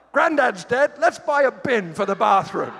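sarcastic bright parody of the grieving family; mock family voice. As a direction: ham up their cheerful logic. Mocking the family's reasoning.

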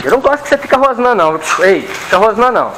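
high, fast scolding of the growling dog; pet-talk scolding. Real, not acted. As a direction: tell the dog off in a high, quick voice.

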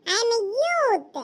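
each word stretched out slowly; mock-grand slow boast; slow, proud boast. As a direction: drag it out like a proud announcement. Showing off his youthful look.

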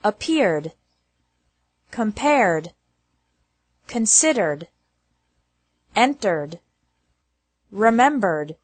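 "appeared", "compared", "entered" ending in R plus D; careful word-list demo, "compared" closing straight on D. Shown as a demonstration. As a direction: end "considered" and "remembered" on a plain D, no extra syllable. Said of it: "E D is pronounced like D with no extra syllable".

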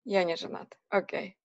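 ordinary talk

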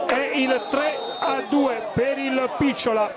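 slowed, shouted call of the winner; excited goal call. Real, not acted. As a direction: stretch out the winning goal call. Winning goal called in commentary.

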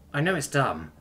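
hurt Terran woman. Acted. Daughter talking to her absent dad, hurt. Simone talks alone to her dead father.

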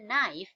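"knife" with an audible F at the end; final F sounded. Shown as a demonstration. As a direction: finish "knife" on a clear f, K silent. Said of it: "อย่าลืมเสียง F E ข้างหลัง". (อ่าน "knife" ให้มีเสียง F ท้ายคำ)

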